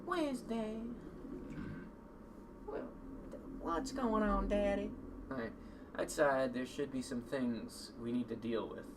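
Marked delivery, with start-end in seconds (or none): 0.0-4.9 character voice. Acted. Character voice, higher.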